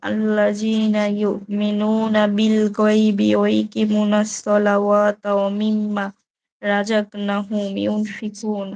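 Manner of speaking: slow, measured Quranic recitation. Acted. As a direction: draw each Arabic syllable out slowly. Reads Quran verses aloud. (ধীর কোরআন তিলাওয়াত)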